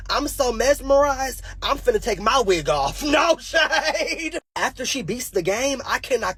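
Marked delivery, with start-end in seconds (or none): none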